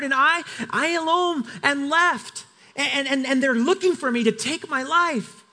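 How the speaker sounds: a worn-out prophet pouring out his case; Elijah's lament, voiced with mild pleading; despairing Elijah. Elijah complains to God.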